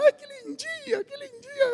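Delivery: put-on high, doting baby-talk coo. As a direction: coo over a newborn like a relative. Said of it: "todo mundo pegava". (falando com um bebê, voz aguda e derretida)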